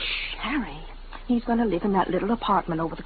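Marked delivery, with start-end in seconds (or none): 0.0-0.8 hushing. Acted. Wife hushes husband, guest nearby.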